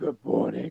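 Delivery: deep, loud dinosaur toy voice. Retelling what a toy dinosaur said one morning: imitating a deep voice. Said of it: "in a deep fucking voice".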